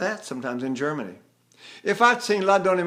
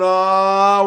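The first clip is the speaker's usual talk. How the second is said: one held sound; 2 semitones higher, 8 dB louder than usual. Shown as a demonstration. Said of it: "and have one sound".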